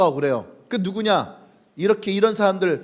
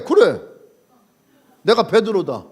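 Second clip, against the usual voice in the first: confident; 4 dB louder than usual. Acted. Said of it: "당당하게".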